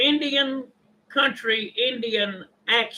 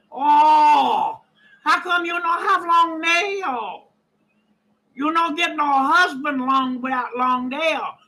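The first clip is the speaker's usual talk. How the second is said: put-on East Asian accent, pestering salesperson; hammed-up East Asian accent; mock East Asian accent. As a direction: imitate a nagging nail-salon worker with an East Asian accent. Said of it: "I can do numerous accents".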